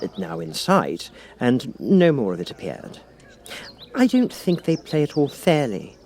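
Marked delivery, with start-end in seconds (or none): 3.9-6.0 put-on higher girlish voice, lightly complaining; a young girl grumbling, only mildly. Alice grumbles to the Cat about the croquet game. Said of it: "in a rather complaining tone".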